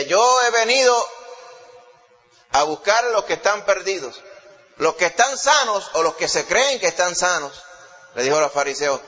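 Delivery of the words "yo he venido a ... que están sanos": solemne, más fuerte y lento; voz de Jesús. Retold or imitated. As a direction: proclamando su misión a los fariseos. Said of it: "Él decía". (Jesús proclama su misión, solemne)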